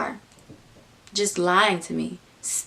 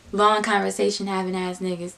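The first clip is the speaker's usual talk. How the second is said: playing dumb. Her echoing the friend's words, acting clueless. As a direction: repeat the phrase as if baffled. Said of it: "Like, I'm acting stupid".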